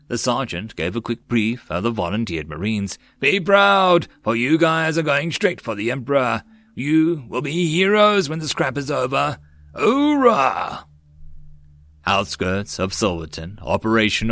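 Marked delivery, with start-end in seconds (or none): 3.2-10.9 high, projected pep talk rising to a cheer; rally the men, ending on a shout; rallying the troops. A narrator's reading. Sergeant to Marines going into battle, rousing them.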